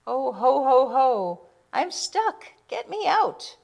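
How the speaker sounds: high jolly chuckle rising to a loud cry; laugh, then shout for help; chuckle turning to shout. A narrator's reading. Santa stuck in the chimney, chuckling then shouting. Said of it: "It starts as a chuckle, then turns to a shout".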